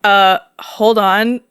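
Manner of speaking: slow, awkward pause. Retold or imitated. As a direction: stall uncomfortably. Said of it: "So I'm all awkward".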